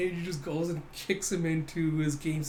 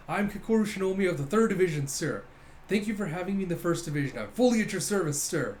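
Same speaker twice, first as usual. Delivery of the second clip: higher, crisp formal report; military salute; 3 semitones higher than usual. Acted. New officer saluting her division captain, brisk and formal. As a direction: report in briskly, dropping pitch on each "sir". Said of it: "So she salutes and goes".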